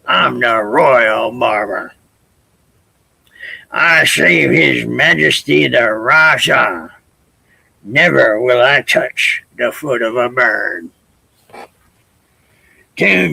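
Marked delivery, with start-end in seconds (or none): 0.1-10.9 huffy. Acted. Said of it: "the barber huffed".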